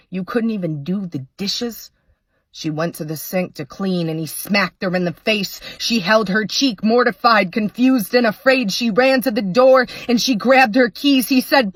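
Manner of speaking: rhythmic poetry recital, steady and measured; earnest spoken word storytelling; spoken word poem. Acted. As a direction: perform it like a slam poem.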